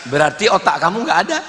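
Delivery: acted cool punchline; unruffled. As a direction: deliver the conclusion without heat. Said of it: "dia slow ketika ditanya". (menyimpulkan dengan santai)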